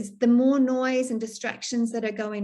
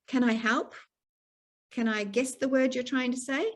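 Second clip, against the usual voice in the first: gentle offer of help; 3 semitones higher than usual. Shown as a demonstration. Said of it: "you can always say".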